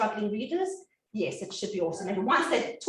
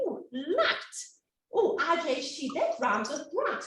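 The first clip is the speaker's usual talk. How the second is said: put-on child's discovery; 5 semitones higher than usual. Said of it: "they'll see".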